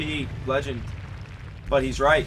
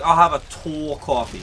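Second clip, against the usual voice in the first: put-on New York accent. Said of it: "What accent is".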